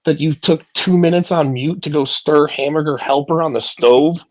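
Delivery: mocking outburst. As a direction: scoff at them as if they're showing off. Mocking a streamer's parenting flex.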